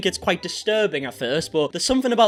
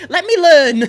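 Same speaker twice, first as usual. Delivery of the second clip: laughing plea; 11 semitones higher, 11 dB louder, slower than usual. Real, not acted. Pleading jokingly with viewers.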